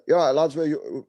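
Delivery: half-attempted Cockney cabbie; Cockney accent. Cab driver greeting lads, shaky attempt at Cockney accent. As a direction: have a tentative go at Cockney. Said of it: "Cockney accent".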